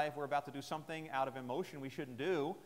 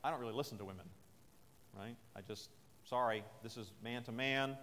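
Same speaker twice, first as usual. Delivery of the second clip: dismissive brush-off; 5 semitones lower than usual. Retold or imitated. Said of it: "He could have said something like".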